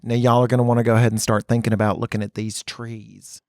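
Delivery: Southern preamble. Retold or imitated. Southern guide introducing trees to tourists, long-winded Southern accent. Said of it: "they preamble what they're saying so much".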